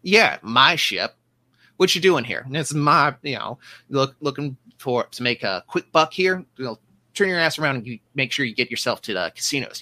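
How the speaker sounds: bossy small-time officer blustering; gruff portly man. Acted. GM voices portly ship officer.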